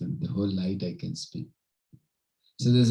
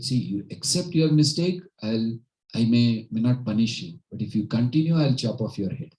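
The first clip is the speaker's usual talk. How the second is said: raised, stern royal warning, lightly acted; mock kingly ultimatum, a bit louder; retold angry king; 5 dB louder than usual. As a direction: threaten like a displeased king, moderately. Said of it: "the king was very angry".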